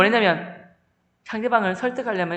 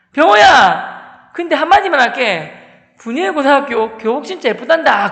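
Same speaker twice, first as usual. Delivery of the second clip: loud, higher call with a long-drawn name; calling from afar; 4 semitones higher, 8 dB louder than usual. Retold or imitated. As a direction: call back to a friend as you walk off. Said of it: "그 아이가 멀리 가면서 한마디 했어요". (멀리서 크게 외치는 소리)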